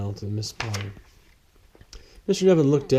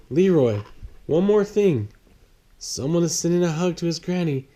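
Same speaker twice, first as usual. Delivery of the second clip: Miss Potter; 5 semitones higher than usual. Acted. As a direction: brightly hand it over like a happy clerk. Miss Potter hands over hug.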